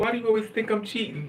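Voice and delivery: acted, high, tearful sobbing. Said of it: "He was crying".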